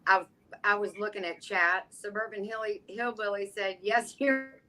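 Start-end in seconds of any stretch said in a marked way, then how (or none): 3.8-4.6 hammed-up Italian accent, pitched up; stagey mock-Italian delivery. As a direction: put on a playful, exaggerated Italian accent. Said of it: "in your best Italian accent".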